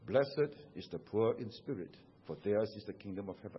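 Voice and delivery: hushed, breathy whispered scripture. Shown as a demonstration. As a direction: whisper it so softly it barely carries. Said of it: "And so I whisper".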